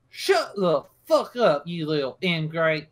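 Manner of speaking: slow, emphatic acted scolding; exasperated, drawn-out telling-off; annoyed yelling. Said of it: "she goes back to yelling".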